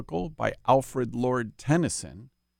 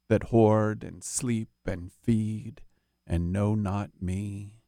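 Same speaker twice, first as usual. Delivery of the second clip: poetry voice. Shown as a demonstration. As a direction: read it like a poetry reading. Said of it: "using his poetry voice".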